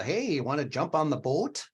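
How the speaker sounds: Minnesota long O in "boat"; demonstrated Minnesota accent, rounded "boat". Shown as a demonstration. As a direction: play up the Minnesota O. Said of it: "I mean, I still have the".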